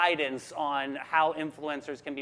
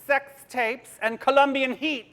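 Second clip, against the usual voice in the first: drawn-out, higher, louder title read; teasing slow read; 7 semitones higher, 4 dB louder than usual. Real, not acted. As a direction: savor each racy title slowly. Reading racy film titles aloud.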